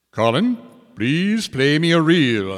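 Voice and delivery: high, loud, polite horse spirit; polite Púca. Acted. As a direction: ask it politely, otherworldly. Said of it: "asked the Púca politely".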